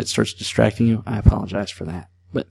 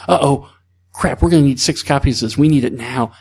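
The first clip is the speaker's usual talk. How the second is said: higher-pitched, hurried oh-no moment; mock sudden panic; 3 semitones higher than usual. Imagining an urgent need for six copies, mock alarm. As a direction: play a small emergency breaking out. Acts out sudden printing emergency.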